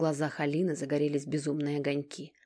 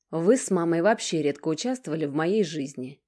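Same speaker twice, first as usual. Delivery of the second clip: interrupting; 7 dB louder than usual. Acted. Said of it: "прервала его Алина".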